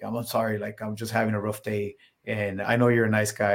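retold, subdued apology; mildly contrite, settled voice; calm apology. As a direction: imitate a man who has cooled down. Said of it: "he was pretty calm".

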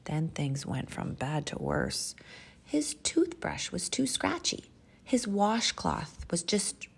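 animated picture-book reading with measured pauses; expressive children's storyteller; storytime narration. Acted. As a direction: read it to little children, savoring key words.

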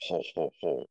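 low, forced ho ho ho; phony Ed McMahon laugh. Retold or imitated. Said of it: "his laugh was funny because it was so phony".

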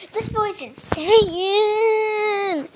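slow, high, crying shout; exasperated yell. Real, not acted. Joe grabbing her house keys.

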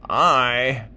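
put-on high, laughing boastful old clam; scoff, then boast slowly; talking clam.

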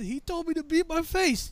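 high-pitched, pleading explanation; lightly hammed-up tattling; protesting recruit. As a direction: blame the other guy in a high voice.

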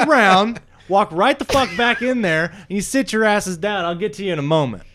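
gruff boss barking at his wrestlers; angry booker. Acted. Booker scolding his wrestlers back into the room, angry boss voice. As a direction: chew them out like a furious promoter.

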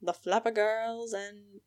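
a hint of an old-timey flapper, slowed; 1920s voice. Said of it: "That's my nineteen twenties voice".

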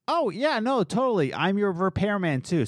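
high, over-keen sarcastic yes; mock-willing, starting high and stepping down; sarcastic agreement. Employee answering boss's request to fix the grinder, sarcastic.

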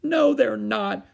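put-on high, loud, slow childish wail; tearful cry. A narrator's reading. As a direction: cry out in upset contradiction. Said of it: "cried Susan".

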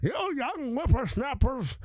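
grumpy old-timer ranting, lightly voiced; a hint of a cranky old man; old man impression. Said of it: "the old man impression".

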